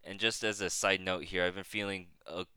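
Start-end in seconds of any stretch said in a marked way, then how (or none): 1.4-2.4 stuffy, nasal flu voice. Real, not acted. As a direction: talk through a blocked nose. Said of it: "if my voice sounds extra nasally".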